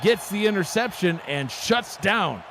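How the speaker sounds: proud, high-pitched sportscaster call; excited play-by-play. Real, not acted. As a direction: announce the big defensive play with emphasis. Announcing who made the interception.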